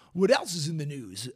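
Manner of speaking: smooth-talking radio host put-on; mock news-segment intro. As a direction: lightly put on an FM radio announcer. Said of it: "that's my F M radio voice".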